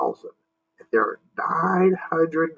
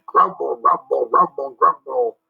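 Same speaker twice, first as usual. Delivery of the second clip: monster rumble. Acted. Monster rumble over music.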